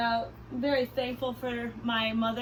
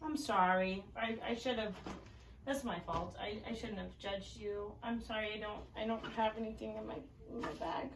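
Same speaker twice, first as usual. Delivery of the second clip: very soft, lowered apologetic voice; hushed, halting play remorse; sheepish apology; 3 semitones lower, 12 dB quieter, faster than usual. Pretend. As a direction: tiptoe verbally around an offended pretend skunk. Apologizes to the pretend skunk.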